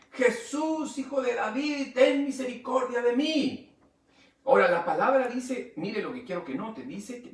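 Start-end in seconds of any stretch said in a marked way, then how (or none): 0.1-3.6 high, loud plea to Jesus; crying out. Acted. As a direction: cry out for mercy, raised high. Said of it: "comenzó a gritar y a decir". (clamor alto y fuerte de un mendigo)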